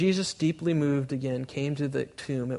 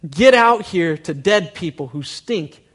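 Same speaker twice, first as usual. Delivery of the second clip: loud command; 3 semitones higher, 9 dB louder, slower than usual. Retold or imitated. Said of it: "that says".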